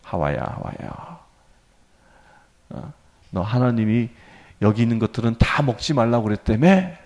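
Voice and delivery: low, very soft coaxing murmur; hushed, insinuating tempter; tempter's whisper. Acted. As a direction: play the serpent whispering temptation to Eve. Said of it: "이렇게 유-, 속삭이잖아요".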